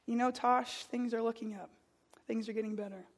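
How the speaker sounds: put-on teacher softly reassuring a teenager on a gloomy morning; gentle reassurance. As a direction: quietly comfort a struggling student. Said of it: "he says".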